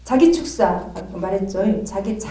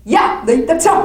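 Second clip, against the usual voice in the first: loud, higher "shut up" shout; shouting rebuke; 7 semitones higher, 8 dB louder than usual. Retold or imitated. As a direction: silence the demon. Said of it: "막 이러고".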